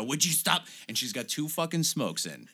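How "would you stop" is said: imitating Doris. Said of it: "we would pretend to be Doris and go".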